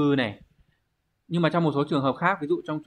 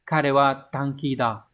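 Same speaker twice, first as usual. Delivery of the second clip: slow careful reading; 3 dB louder, much slower than usual. Shown as a demonstration. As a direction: read the Japanese test sentence slowly, word by word. Reading the test sentence aloud. (đọc chậm rãi câu tiếng Nhật)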